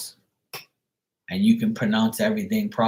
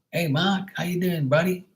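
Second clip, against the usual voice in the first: higher-pitched imitation British accent; mock British greeting, pitched up; 9 semitones higher than usual. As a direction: put on a high British accent. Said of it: "you always hear British accents here".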